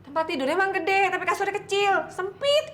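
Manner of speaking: high, loud objection; exasperated protest. Acted. Aunt arguing the bed is too cramped, exasperated protest.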